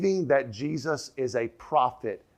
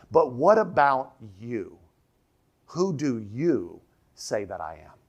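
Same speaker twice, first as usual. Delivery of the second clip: slow, with YOU stressed and drawn out; emphatic you; 2 semitones lower, slower than usual. Shown as a demonstration. Preacher showing how the translation brings out the emphatic, stress on YOU. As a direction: lean slowly on "you" in both questions. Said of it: "bring out the emphatic".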